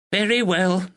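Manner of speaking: a proper village neighbour, a touch anxious; spinster neighbour. A narrator's reading. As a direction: speak as a dutiful northern spinster. Miss Bennet voiced.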